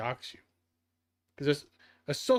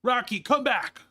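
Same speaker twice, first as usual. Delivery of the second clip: shouts it out higher and louder; calling out; 8 semitones higher, 5 dB louder than usual. Real, not acted. Calling the thrown hammer Rocky back, loud and high. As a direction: call it back from across the room.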